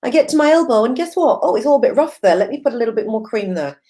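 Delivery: high, lightly surprised musing to herself; inner voice surprised. Retold or imitated. Viewers hear her inner voice while creaming her body, mildly surprised. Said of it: "And then you think".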